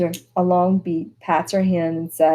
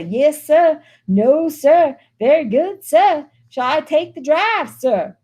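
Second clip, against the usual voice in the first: higher, mocking yes-sir voice; mock-polite driver; mock servile chauffeur; 10 semitones higher, 4 dB louder, slower than usual. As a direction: parrot the servant's politeness with scorn. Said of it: "and I say".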